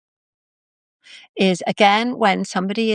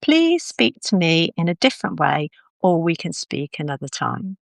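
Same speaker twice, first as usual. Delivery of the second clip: a calm, measured request; quite calm. Shown as a demonstration. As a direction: ask it steadily and kindly, without rising to the anger. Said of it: "quite calmly".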